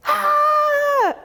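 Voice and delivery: high, loud mock shriek of stress; mock panic scream. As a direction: let out a hammed-up panicked yell. Remembered panic before the event.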